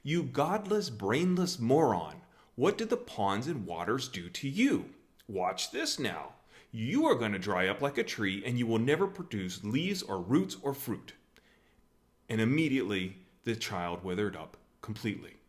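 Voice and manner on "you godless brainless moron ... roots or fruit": mock angry yell. Jesus cursing the boy who wrecked his pools, mock angry yell. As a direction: imitate a furious telling-off, hitting the insults hard. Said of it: "He instead yells at the kid".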